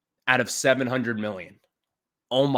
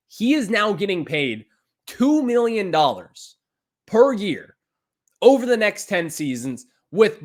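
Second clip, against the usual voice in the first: louder, higher outraged emphasis; 5 semitones higher, 3 dB louder than usual. Real, not acted. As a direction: hammer the number in disbelief. Host outraged at contract.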